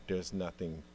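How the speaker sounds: ordinary talk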